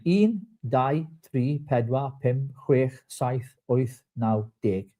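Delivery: counting "un, dau, tri, pedwar, pum, chwech, saith, oith, naw, deg" in Welsh; demonstrating Welsh numbers for a co-host. Shown as a demonstration. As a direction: count slowly in Welsh, one number at a time. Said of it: "count to one to ten in Welsh".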